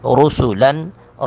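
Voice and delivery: رُسُلًا with ر full, س whistled; heavy ra. Shown as a demonstration. Teacher showing heavy ra and whistling sin. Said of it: "رو کو پر کر کے پڑھیں گے".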